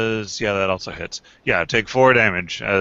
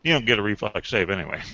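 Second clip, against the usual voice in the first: talking with food in mouth; mumbled through a mouthful of food; mouth full; 4 dB quieter, much faster than usual. Real, not acted. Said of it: "Can't understand you with food in your mouth".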